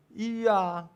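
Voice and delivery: put-on high little-kid voice; acted child's reply; small child answering. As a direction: answer like a child fresh from a bad dream. Preacher voices small child waking.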